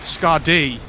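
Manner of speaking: mimicked "Scardy" with weight on the last syllable; "Scardy" as scar-DEE, end syllable emphasized; stress on end. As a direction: imitate it, leaning on the end of "Scardy". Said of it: "emphasize the end of the word".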